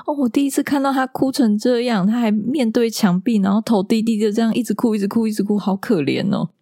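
sweet kindergarten teacher cooing in pity; imitating the teacher. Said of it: "老师就说".

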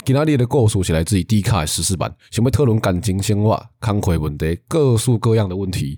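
ad copy read in Taiwanese-accented Mandarin; Taiwanese-flavoured ad read. Shown as a demonstration. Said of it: "用台语讲个大概意思". (台湾国语腔调)

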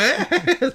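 high-pitched sneering heh-heh-heh; high cackle. Retold or imitated. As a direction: cackle like a gleeful thug. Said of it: "然后我会尖笑".

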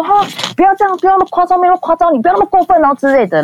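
a mocking falsetto take on the other man; mock high voice. Retelling the other man telling him to get up, in a high mocking voice. He mimics the other man's words.

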